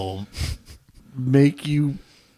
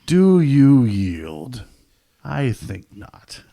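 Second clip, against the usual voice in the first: mock knight; 5 dB louder, much slower than usual. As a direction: ham up a duelling knight. Mock duel line.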